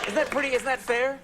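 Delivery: high, mumbled broad Irish; mock an unintelligible rural Irish accent; hammed-up thick brogue. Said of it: "can't understand what they're saying".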